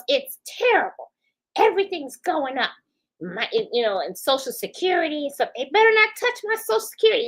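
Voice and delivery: a lightly voiced worried senior; imitating the lady. Lady complaining about prices voiced.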